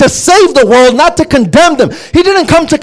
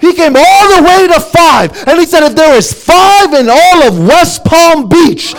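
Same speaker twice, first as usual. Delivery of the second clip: raised, ringing sermon voice, high and driving; fiery preaching; 3 semitones higher than usual. Acted. Preacher to congregation on God's mercy, in a fervent raised voice. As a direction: preach it out with rising fire.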